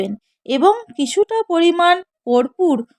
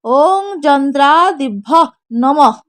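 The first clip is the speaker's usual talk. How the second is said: mantra recitation; 3 dB louder, slower than usual. Shown as a demonstration. Priest showing worshippers how to say the mantra, slow chant. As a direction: intone it like a priest at puja. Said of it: "বলবেন".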